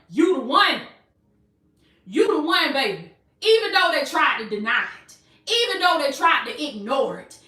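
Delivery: emphatic, rhythmic preacher cadence; impassioned preaching in building refrains; full-force preaching. Real, not acted. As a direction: drive each repeated phrase home to the congregation. Preaches in rising repeated phrases.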